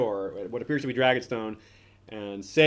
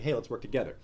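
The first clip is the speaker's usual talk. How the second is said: softer, calmly imitated offer; calm appeal; 6 dB quieter, faster than usual. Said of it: "that's delivered calmly".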